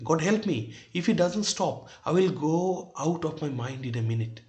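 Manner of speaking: exasperated. Acted. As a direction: read it as a lightly acted plea for relief. Acted line of exasperated husband. (হালকা বিরক্তির সুরে)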